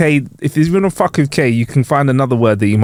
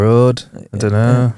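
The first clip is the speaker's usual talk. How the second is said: slow, lightly put-on Yorkshire accent; 3 semitones lower, slower than usual. Cohost tries out a Yorkshire accent, slow Yorkshire. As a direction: draw out the Yorkshire vowels slowly. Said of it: "A Yorkshire accent".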